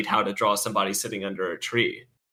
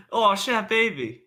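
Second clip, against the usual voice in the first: exaggerated slangy dude; American slang voice; 10 semitones higher than usual.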